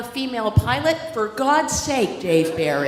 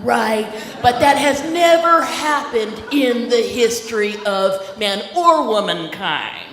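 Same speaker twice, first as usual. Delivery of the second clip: acting out. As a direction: lay it on like a preacher, lightly. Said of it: "and I'll kinda do some like this".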